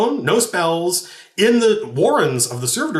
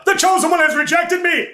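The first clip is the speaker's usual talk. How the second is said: high, despairing dwarf wail; high-pitched crazed lament; insane Darrow; 3 dB louder than usual. Retold or imitated. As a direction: cry out like a betrayed fanatic. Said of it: "suddenly says".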